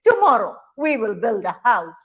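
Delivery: lightly voiced father monkey. Father monkey promising a house, lightly voiced declaration. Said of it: "father monkeys would shake their right hand and say".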